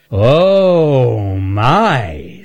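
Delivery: delighted surprise. Acted. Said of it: "said Earl".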